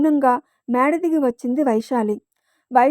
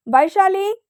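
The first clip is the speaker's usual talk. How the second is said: Vaishali called out high and loud, rising; calling out loudly; 6 semitones higher, 3 dB louder, slower than usual. A narrator's reading. Son calls Vaishali down, loud rising call. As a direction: shout her name up the stairs. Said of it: "గట్టిగా అరిచాడు అంగద్".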